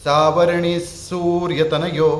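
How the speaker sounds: सावरणी सूर्यतनयो recited slowly, each syllable clear; slow Sanskrit recitation demo. Shown as a demonstration. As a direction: chant सावरणी सूर्यतनयो slowly with the visarga sound dropped. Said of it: "पहला श्लोक अगर आप ध्यान देंगे".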